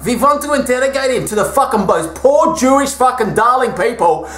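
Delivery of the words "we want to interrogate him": mock German officer. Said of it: "German war camp interrogation".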